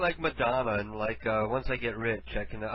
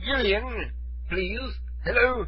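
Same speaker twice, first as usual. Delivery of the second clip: high British calling-out, getting louder; fake British accent; 8 semitones higher, 4 dB louder, slower than usual. Prank caller trying to rouse the person called, fake British accent. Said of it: "with a British accent".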